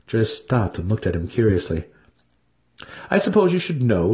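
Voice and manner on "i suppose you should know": higher, playful withholding tone; teasing. Acted. Dinin teasing Drizzt about the mission: playful higher voice. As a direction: dangle the secret in front of him. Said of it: "Dinin teased".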